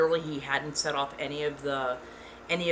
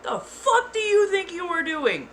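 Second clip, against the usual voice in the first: booming shout; 12 semitones higher than usual. Retold or imitated. Yelling at the man getting into her car. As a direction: roar it like a protective dad. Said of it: "I put bass in my voice".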